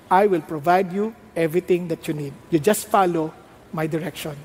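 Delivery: low, measured divine reply; voice of God. Acted. God promising provision to a worried believer, low assured voice.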